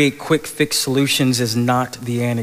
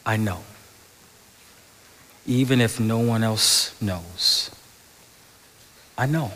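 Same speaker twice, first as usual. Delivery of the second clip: gentle voice of God. Acted. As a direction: speak it like a tender reassurance. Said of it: "the gentle whisper of God who says".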